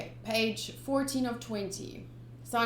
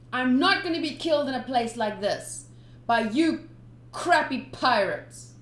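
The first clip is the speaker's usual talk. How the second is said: put-on louder kid cursing pirates; defiant boy; 3 semitones higher, 6 dB louder than usual. Young Sanji refusing to die, loud defiance. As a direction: spit it at the pirates.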